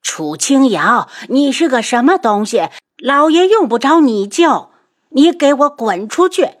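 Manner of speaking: high, loud furious yell; roaring. Acted. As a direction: throw her out with a bellow. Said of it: "楚夫人大吼". (楚夫人大吼着赶人)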